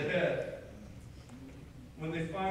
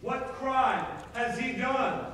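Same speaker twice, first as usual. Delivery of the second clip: slow, raised-pitch challenge; demanding; 5 semitones higher, 3 dB louder, slower than usual. Acted. Pilate questioning the mob about Jesus, demanding. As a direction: press the crowd slowly for a reason. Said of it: "Pilate demanded".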